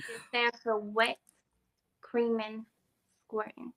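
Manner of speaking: put-on presenting voice. Singer spelling out a song title, slowly and deliberately. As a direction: savor each word, pausing between them. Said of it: "Let me get my voice right".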